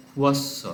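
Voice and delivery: খুয়স্স with a long doubled স্স hiss; খুয়স্স, hold the double s; Pali pronunciation. Shown as a demonstration. Teacher modelling the conjunct for students, careful demo. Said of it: "উচ্চারণ হচ্ছে".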